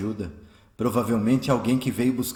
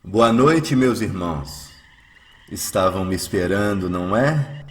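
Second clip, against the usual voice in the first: louder, lower, smiling and kind; smiling greeting; 6 semitones lower, 4 dB louder, slower than usual. Acted. Eurípides greets his would-be killers, smiling warmly. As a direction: bless them gently with a smile. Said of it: "diz sorrindo".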